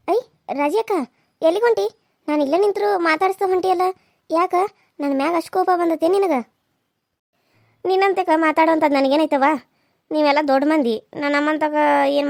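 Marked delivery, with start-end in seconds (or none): 0.1-6.4 higher voiced woman calling out after her; teasing village neighbour. Neighbour calls after Raji akka, higher and coaxing. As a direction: coax the passing sister with a lifted voice.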